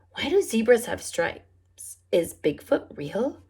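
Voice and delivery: lightly voiced curious little bird; Wordy Birdie questions. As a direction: ask it all with a child's curiosity. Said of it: "she just asks questions".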